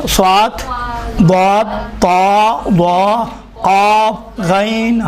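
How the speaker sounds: slow list, صاد، طا، قاف thick and full; spaced-out emphatic consonants from صاد to غین; heavy letters. Shown as a demonstration. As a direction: draw out each heavy letter with rounded vowel. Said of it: "یہ موٹے حروف ہیں".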